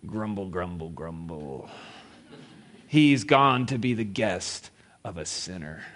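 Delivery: low, soft grumbling mutter; muttering crowd. Retold or imitated. Townspeople resent Jesus visiting a sinner, muttering. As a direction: grumble it under your breath like a disapproving crowd. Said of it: "they began to mutter".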